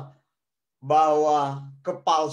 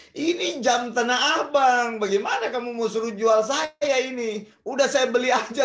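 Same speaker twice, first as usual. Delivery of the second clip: mock indignant objection, raised pitch; incredulous protest; 4 semitones higher than usual. Retold disbelieving protest to friend. (protes heran, pura-pura sewot)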